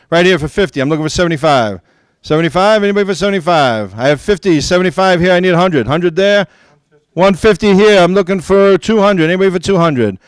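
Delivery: steady auctioneer patter; auctioneer calling bids. Real, not acted. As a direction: keep the bids rolling. Second auction bid calling.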